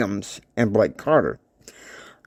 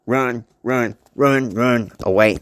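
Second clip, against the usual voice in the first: evenly repeated runs, closer to usual pitch; repeated warning; slower than usual. Acted. Warning said one more time, evenly repeated. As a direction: repeat the warning with less force. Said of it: "But he said like this".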